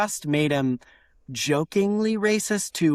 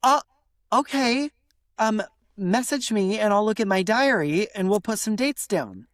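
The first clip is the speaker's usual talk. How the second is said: hesitant start, then higher and agreeable; polite British no; 6 semitones higher than usual. Shown as a demonstration. Friend putting off making plans, politely evasive. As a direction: stall politely with a non-committal yes. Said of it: "Or even if they say".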